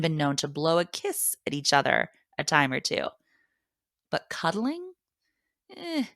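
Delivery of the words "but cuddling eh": high, dubious "But cuddling? Eh."; mock reluctant cuddling. Real, not acted. Mother to reader, shrugging off cuddling with a high, doubtful eh. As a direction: pull a face at the idea.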